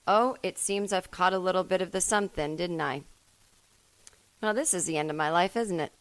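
calmly resigned to death; dying cat voice. Retold or imitated. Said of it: "British, but without the accent".

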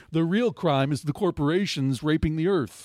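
lightly voiced new age hippie; a touch of a hippie moderator; airy breathy mystical healer. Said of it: "kinda new age hippie, moderator voice".

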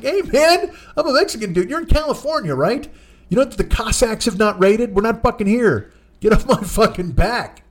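high-pitched exasperated pleading; exasperated driver. Retold or imitated. Mexican driver protesting to his passenger, exasperated plea.

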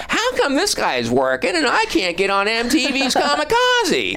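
high whiny mock complaint; bitter complaining. Comedian mocks the comic's jealousy, high whiny complaint. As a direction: whine like a bitter has-been comic. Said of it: "complaining about".

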